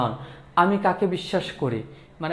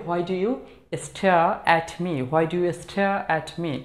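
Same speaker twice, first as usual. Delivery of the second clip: slow model phrase; much slower than usual. Shown as a demonstration. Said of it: "বলতে পারি".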